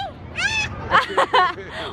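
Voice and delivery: bright high-pitched laugh. Real, not acted. Laughing at child.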